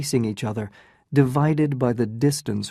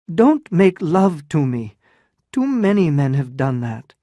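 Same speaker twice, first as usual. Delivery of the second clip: bitter rebuff; 4 semitones higher, 5 dB louder than usual. Acted. Ellen rebuffs him bitterly.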